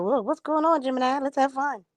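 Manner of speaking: lightly voiced Aries calling the Gemini to have fun; mock eager Aries. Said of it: "Aries like".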